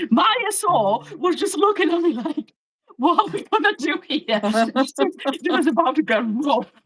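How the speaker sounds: high, giggly mock dismay; laughing retelling. Officer to colleague about weak backup, laughing. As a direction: act out the stand-off through laughter. Acting out panic while laughing.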